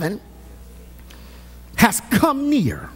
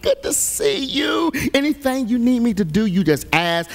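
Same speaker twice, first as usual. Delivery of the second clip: sugary church greeter; 3 semitones lower than usual. Retold or imitated. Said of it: "we'll treat them so nice".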